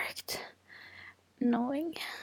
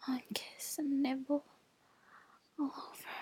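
whispering. Real, not acted. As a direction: whisper it, sighing between phrases. Long sultry whispered monologue.

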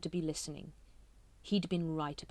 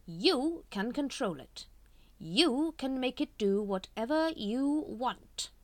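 slow, raised, silky persuading; seductive tempter; 7 semitones higher, 4 dB louder, slower than usual. A narrator's reading. Grand Master tempting Watchtower, slow and silky. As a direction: dangle the offer slowly.

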